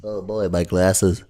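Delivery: lightly voiced nerd; a hint of a nerd fretting; classic nerd voice. Shown as a demonstration. Demonstrating the classic nerd voice, lightly voiced nerd. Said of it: "that's just a classic nerd voice".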